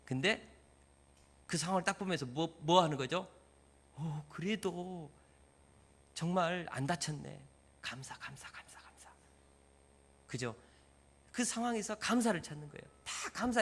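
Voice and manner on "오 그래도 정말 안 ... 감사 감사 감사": calm gratitude. Shown as a demonstration.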